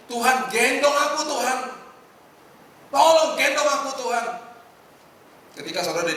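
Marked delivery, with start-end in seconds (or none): 0.1-4.3 pleading prayer. Acted.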